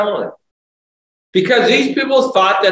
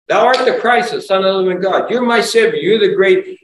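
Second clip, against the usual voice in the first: raised, ringing proclamation; fervent confession; 3 semitones higher than usual. Acted. Preacher voicing a believer confessing Christ, fervent and raised.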